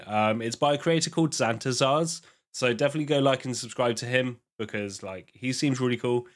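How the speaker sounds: congested, groggy cold voice. Real, not acted. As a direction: talk through a head cold. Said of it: "Apologies for the, like, groggy voice".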